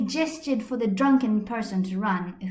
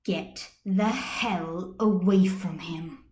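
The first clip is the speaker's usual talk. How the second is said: growl; 2 semitones lower, slower than usual. Acted. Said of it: "a growl spoke".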